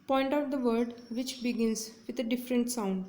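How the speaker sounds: slow, careful reading of an exam question; deliberate classroom read-aloud. Shown as a demonstration. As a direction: read each word clearly for students. Teacher reads exam question aloud.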